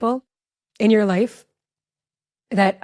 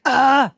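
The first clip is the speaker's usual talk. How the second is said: short, raised, tense "ah"; tense mock yelp; 4 semitones higher, 5 dB louder than usual. Mom acting out her nerves in the passenger seat, tense yelp. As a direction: imitate a nervous passenger's outburst. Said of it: "tense and like".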